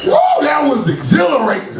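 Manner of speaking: high, laughing delight; mock-thrilled young guy; giddy thrill. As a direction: gush about the thrill, laughing. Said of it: "be like".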